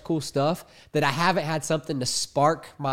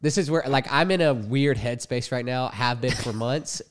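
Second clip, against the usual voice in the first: blocked nose voice; stuffy nose, talk through it; congested. Real, not acted. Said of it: "I'm super congested right now".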